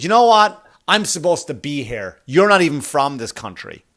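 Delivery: a snippy woman lashing out at the comic; indignant heckler. Retold or imitated. Heckler woman snapping at him.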